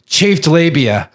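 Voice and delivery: put-on slow, proud drunk drawl; lightly voiced drunk man. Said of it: "like, in a drunk voice".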